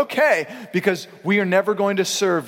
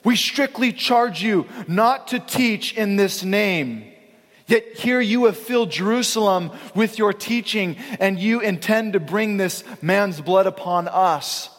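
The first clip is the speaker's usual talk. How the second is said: stern high priest; 4 semitones higher than usual. Retold or imitated. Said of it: "The high priest says".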